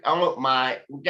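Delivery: a hint of a Valley girl; California socialite. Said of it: "a California socialite".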